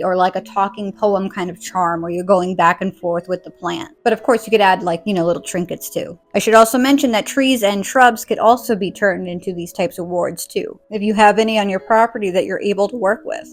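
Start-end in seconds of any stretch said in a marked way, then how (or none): 6.3-13.5 suppressing hiccups. Real, not acted. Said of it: "I have hiccups".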